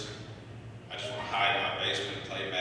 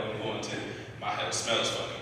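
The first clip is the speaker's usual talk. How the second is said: normal talking voice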